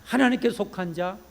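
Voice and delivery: ordinary talk, nothing marked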